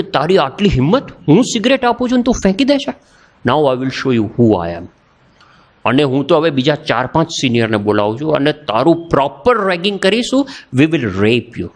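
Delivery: mock threatening anger, weighted words; retold fury. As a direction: imitate an enraged senior, not shouting. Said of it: "એકદમ આગ બબૂલો થઈ ગયો".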